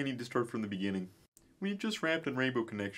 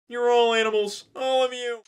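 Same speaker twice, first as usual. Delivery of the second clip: loud, higher, raging outburst; angry shout; 7 semitones higher, 11 dB louder than usual. Acted. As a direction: yell it at the whole room. Kermit shouting at court.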